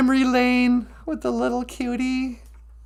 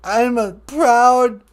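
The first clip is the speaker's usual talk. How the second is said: mock tearful; 4 semitones lower, much slower than usual. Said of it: "I'm not crying".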